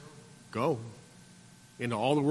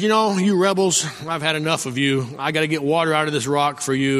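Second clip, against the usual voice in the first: angry Moses. Acted. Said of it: "And he's angry".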